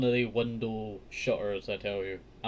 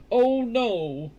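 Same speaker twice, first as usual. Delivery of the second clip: higher, louder worried cry; a hint of a startled giant's wife; alarmed woman; 11 semitones higher, 9 dB louder than usual. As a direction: warn him off in a fright. Woman refuses Jack.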